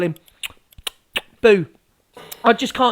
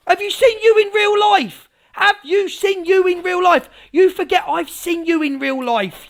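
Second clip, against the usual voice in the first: ranting, higher-pitched challenge; put-on rant; 5 semitones higher than usual. Streamer staging a rant to grow the room, indignant. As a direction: go off on a mouthy rant. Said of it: "how I go off a, on a rant".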